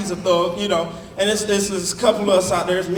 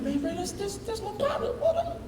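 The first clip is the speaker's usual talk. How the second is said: excited greeting; 10 semitones higher, 14 dB quieter than usual. Retold or imitated. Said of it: "I'm like".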